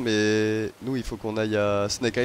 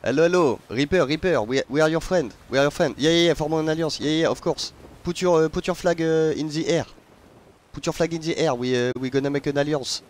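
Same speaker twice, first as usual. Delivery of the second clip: higher and much louder, a hammed-up French accent; loud French-accented call; 5 semitones higher, 7 dB louder than usual. Streamer begging a Reaper crew for an alliance, loud French-accented shouting. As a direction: shout across the sea like an over-eager French pirate. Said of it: "j'en joue gavé du vieil accent franchouillard".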